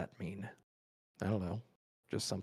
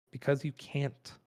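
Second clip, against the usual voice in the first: pixie; 5 semitones higher, 3 dB louder than usual. Acted. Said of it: "tiny little voice of Still".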